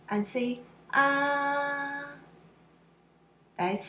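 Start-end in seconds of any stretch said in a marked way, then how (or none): 0.9-2.1 "Ah" held long on a high, level pitch. Shown as a demonstration. Doctor wants to see your throat, high level "Ah". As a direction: open up and hold "Ah" steady and high. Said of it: "is high and level".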